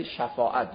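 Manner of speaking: first vowel of «شفاعت» an open "a", not "e"; shafa'at with fatha. Shown as a demonstration. Teacher correcting use of the Arabic word, «شفاعت» as shafa'at. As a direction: say «شفاعت» as sha-fa-'at. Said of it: "به فتح شین".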